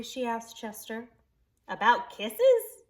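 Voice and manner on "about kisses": put-on eager child.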